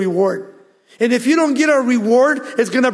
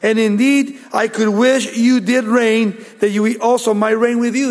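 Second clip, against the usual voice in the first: sarcastic mock; 2 semitones higher than usual. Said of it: "They were boasting".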